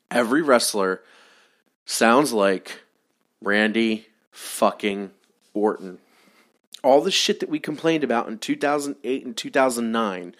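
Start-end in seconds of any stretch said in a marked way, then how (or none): 0.1-6.0 "Every wrestler" "sounds like" "Randy fucking" "Orton" split by pauses; word-by-word emphasis. Real, not acted. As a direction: third take, spaced out for effect. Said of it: "Every wrestler sounds like Randy Orton".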